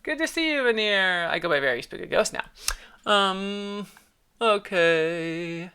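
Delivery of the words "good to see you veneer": character greeting. Acted.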